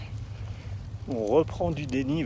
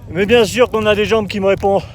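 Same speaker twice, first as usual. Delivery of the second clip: pumped-up shout; 6 semitones higher, 12 dB louder than usual. Real, not acted. Hyping himself up on climb.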